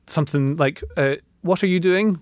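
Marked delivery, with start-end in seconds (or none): 1.4-2.2 imitated Scottish accent, slightly raised. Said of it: "but in a very Scottish accent".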